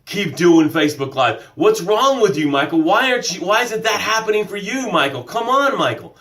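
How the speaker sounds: lightly voiced nagging inner critic; self-doubt's voice. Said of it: "But Am I Enough showed up and said".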